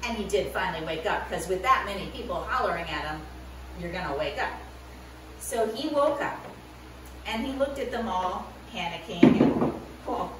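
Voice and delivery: put-on lively storytelling to kids; animated children's Bible story voice; story narration for children.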